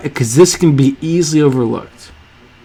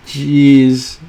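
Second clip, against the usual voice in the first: normal talking voice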